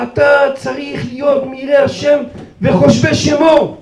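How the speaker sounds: mock shouted rebuke; retold scream. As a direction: drive it home slowly with force. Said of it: "הוא צורח ואומר".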